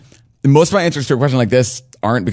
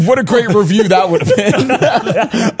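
sarcastic singsong; 11 semitones higher, much slower than usual. Real, not acted. Joking about reviewing untranslated game.

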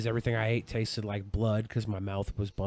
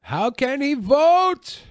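high squeaky voice; 8 dB louder, much slower than usual. Pretend. Mocking high squeaky question.

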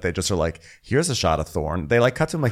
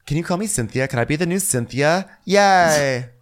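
high, breathless-run fangirl imitation; mock gushing; 10 semitones higher, 3 dB louder than usual. Friends begging Melissa to be best friends, mock gushing. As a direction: gush higher, piling on each "ever".

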